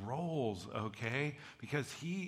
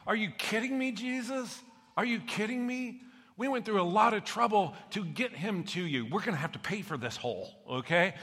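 much higher, outraged disbelief; incredulous friends; 7 semitones higher than usual. Acted. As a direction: friends who dug through the roof, aghast at Jesus. Friends voiced protesting to Jesus.

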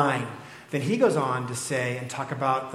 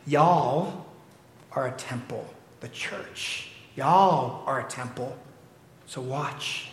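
light Texan drawl on y'all; a hint of a Texan accent; 2 semitones lower, slower than usual. Preacher quotes Paul in a light Texan accent. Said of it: "in your best Texan accent".

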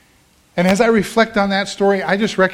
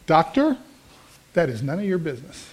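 playfully offended, putting someone in their place; mock indignant retort. Patient tells the doctor what he secretly wanted to say, mock indignant. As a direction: pitch up on the address, then drop for the rebuke.

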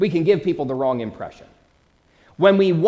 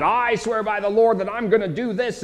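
higher-pitched, overblown vow; mock grand oath; 5 semitones higher than usual. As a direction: make a big show of swearing, mockingly. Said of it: "making a big deal about".

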